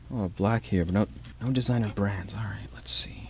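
soft unvoiced whisper. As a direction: whisper while sneaking around. Rummaging in closet.

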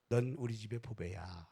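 tender words. Shown as a demonstration. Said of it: "이렇게 한번 해보시죠".

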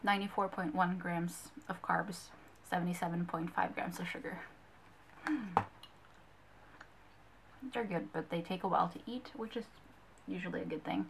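talking around sticky chew; chewing while talking. Real, not acted. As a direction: mouth partly full of candy. Seen 3: Lips pursed, jaw shifting sideways while talking after taking candy.

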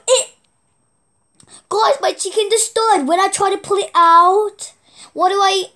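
high, loud, gasping disbelief; laughing disbelief. Real, not acted. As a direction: blurt it out in shock. Gasp then reports death.

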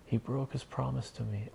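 child's mock tantrum. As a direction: complain in a mild pretend tantrum. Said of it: "He's throwing a temper tantrum".

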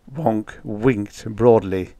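ordinary delivery, nothing marked

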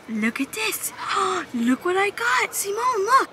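high, slow teasing gasp; mock surprise. Real, not acted. Keeper showing marmoset her worms, high teasing voice. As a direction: tease her with the snack.

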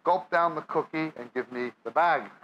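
normal talking voice

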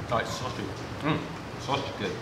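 chewing while talking; muffled by food; mouth full of pizza. Real, not acted. Seen 1: Bites pizza at 1.2s; chews with mouth full through the words.

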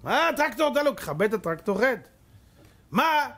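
imitating the driver refusing; arguing back. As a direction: object from the tractor. Shabtai argues from the tractor.

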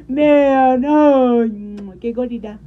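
high and loud cooing over the puppy; gushing. Real, not acted. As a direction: squeal with delight at the puppy.

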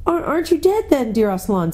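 high, hesitant, stammering question; child hardly daring to ask; awed girl. A narrator's reading. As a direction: start high and falter, timidly. Lucy awed by living Aslan.

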